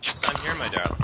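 lightly acted British accent. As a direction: answer as a British darling-sayer. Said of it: "I know you can do a British accent".

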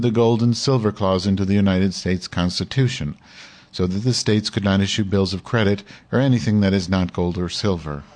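lightly imitated computer read-aloud voice; even, steady text-to-speech style reading. Shown as a demonstration. Streamer reading the gold article as the computer would, mock computer reading. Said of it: "Let me do the computer again".

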